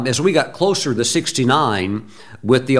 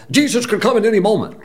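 mock hyped preacher; 9 semitones higher, faster than usual. Mocking the hyped-up guest preacher.

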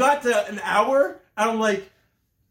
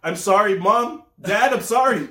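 put-on pleading kids; 4 dB louder than usual. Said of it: "they'll be like".

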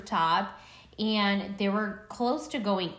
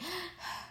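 sharp, quiet mock gasp; imitated sobbing gasp; 9 semitones higher, 12 dB quieter than usual. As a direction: gasp as if holding back tears. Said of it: "you just hear her".

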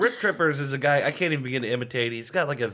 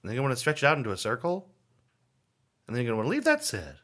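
imitating Chef John cadence; faster than usual. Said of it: "he speaks with a certain cadence".

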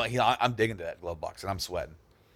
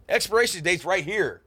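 dad's angry retort; 11 semitones higher, 7 dB louder than usual. Retold or imitated. Dad angrily points at date.

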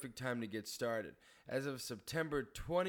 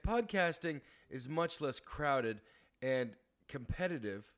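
hungover; slower than usual. Real, not acted. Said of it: "I'm hungover today".

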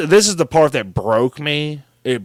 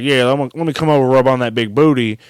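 Silky; 4 semitones lower, 3 dB louder, much faster than usual. Retold or imitated. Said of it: "some guy using a voice modulator named Silky".

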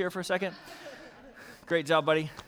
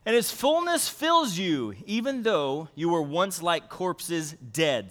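slow, deliberate Bible reading; scripture reading; slower than usual. Acted. Pastor reading the verse slowly to the congregation.

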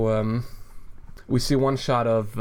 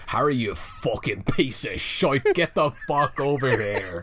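Irish Dumbledore; 3 semitones higher, slower than usual. Acted. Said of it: "run in and be Irish".

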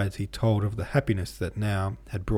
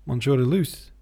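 sharp high haughty question, louder; haughty disbelief; 5 semitones higher, 6 dB louder than usual. A narrator's reading. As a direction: scoff at the very idea. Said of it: "with the hauteur that came so naturally to her".

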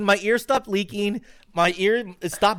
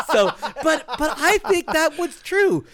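laughing; 9 semitones higher, 4 dB louder than usual. Real, not acted. Laughing after doctor story.

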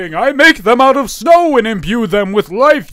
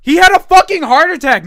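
mock panic; 10 semitones higher, 6 dB louder than usual. Panicked over dead Santa.

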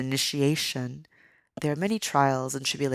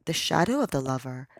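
storytelling voice. A narrator's reading. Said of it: "I'm going to go into my storytelling voice".

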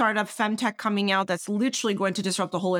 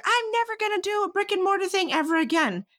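high, exaggerated mock despair; 12 semitones higher than usual. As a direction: play up the hopeless vow, much higher. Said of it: "And I was like".

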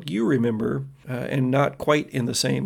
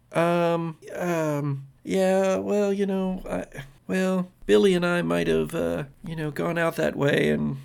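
put-on higher, hesitant girl voice; guilty daughter; 4 semitones higher than usual. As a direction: hedge like a caught-out teenager. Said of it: "And she says".

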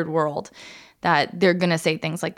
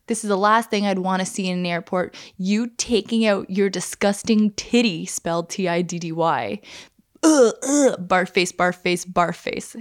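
mock troll comment.

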